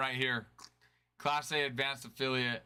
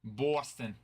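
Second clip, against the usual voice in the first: Boston said with a local accent. Shown as a demonstration. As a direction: lean into the Boston accent on the city's name. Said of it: "I'm from Boston".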